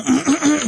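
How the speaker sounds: coughing fit after swallowing a bug; sudden cough, something in the throat; just swallowed a bug. Real, not acted. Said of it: "Entrou-te uma mosca para a boca".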